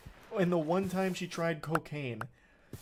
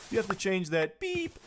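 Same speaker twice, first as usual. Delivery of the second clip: mock censor beep; 3 semitones higher than usual. Shown as a demonstration. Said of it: "beeping himself with a sensor".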